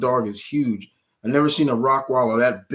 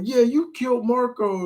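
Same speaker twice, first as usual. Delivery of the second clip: vampire voice; 13 semitones higher than usual. Retold or imitated. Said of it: "he's like".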